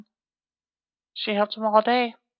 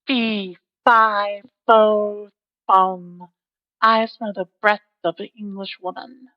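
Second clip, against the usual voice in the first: thundering giant; slower than usual. Acted. Giant bellows as he smells the girl, thundering. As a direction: boom it out like thunder. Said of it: "a voice like thunder cried out".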